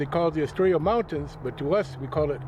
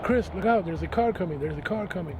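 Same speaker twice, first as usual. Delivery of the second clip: retold yell; 4 semitones higher than usual. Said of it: "I heard my cousin yelling out".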